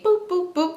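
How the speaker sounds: microwave beeps. Retold or imitated. Imitates pressing microwave buttons.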